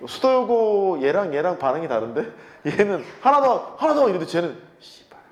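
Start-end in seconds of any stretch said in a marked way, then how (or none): 3.2-4.0 high, loud eager shout of an eager student; playful mock cheer for another problem. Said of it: "뭐 이런 느낌이야". 4.8-5.2 muttered curse. Retold or imitated. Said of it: "뭐 이런 느낌이야".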